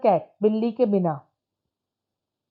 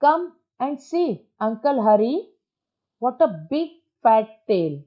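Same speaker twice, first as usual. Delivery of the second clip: put-on girl calling out; 2 semitones higher, much slower than usual. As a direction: call him over slowly. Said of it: "बाहर देखते हुए बोलती है".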